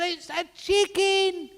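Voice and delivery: very high, loud, stretched-out shriek; over-the-top quarrelling screech; hammed-up yell. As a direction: yell it slowly as a furious mock wife. Wife yelling at quarrel's climax.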